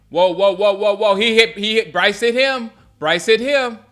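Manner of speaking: real startled sports-watcher outburst; alarmed reaction. Real, not acted. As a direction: react live to a sudden hit. Reacts live to a hit.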